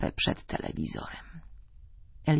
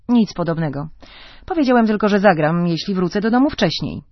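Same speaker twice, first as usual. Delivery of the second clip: louder, defensive pushback; defensive retort; 3 semitones higher, 6 dB louder than usual. Acted. Husband rebuffing his wife, defensive and loud. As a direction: snap back, justifying yourself. Husband argues at dinner table.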